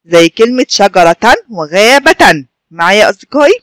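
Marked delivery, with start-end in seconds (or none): 0.7-2.4 "شجرة" and "غابة" each ending in "-tan"; tanween example. Shown as a demonstration. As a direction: slowly sound the final n of "شجرة" and "غابة". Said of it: "آخر حرف هو التاء المربوطة".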